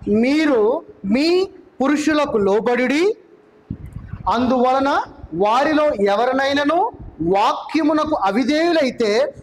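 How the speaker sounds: very slow, deliberate Bible reading; solemn slow reading of the verse; scripture reading. Acted. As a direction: read each phrase slowly for the congregation. Reads scripture aloud.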